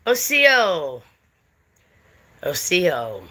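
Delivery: "Osio", middle stressed, falling away at the end; Cherokee greeting. Shown as a demonstration. Showing viewers a Cherokee greeting, demonstrated pronunciation. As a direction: say Osio as oh-SEE-oh. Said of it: "if I was to say to you".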